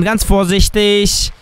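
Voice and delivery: usual speaking voice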